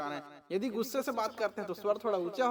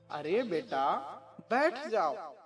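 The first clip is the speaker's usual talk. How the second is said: polite and gentle; 3 semitones lower, much slower than usual. Shown as a demonstration. Teacher demonstrating politeness after the angry line, gentle. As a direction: kindly invite a child to sit, low start. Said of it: "ये थोड़ा विनम्रता का भाव हुआ".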